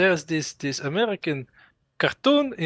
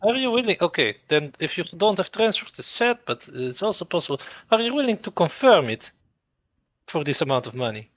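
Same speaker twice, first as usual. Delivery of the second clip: put-on Russian accent; faster than usual. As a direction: play a Russian leader in a thick Russian accent. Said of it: "I could do Russian accent".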